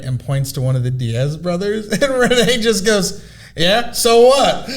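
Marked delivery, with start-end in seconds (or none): 3.5-4.7 high, slow, laughing "so what"; mock drunk nonchalance. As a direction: drag it out like a shameless drunk. Drunk Renee to the husband.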